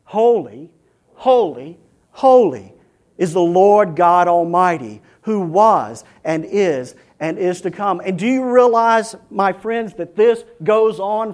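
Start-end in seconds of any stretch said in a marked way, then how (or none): 0.0-8.0 loud, measured proclamation of holiness; proclaimed praise. Acted. Preacher voicing the creatures' eternal worship, loudly proclaimed. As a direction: ring out each phrase with solemn pauses.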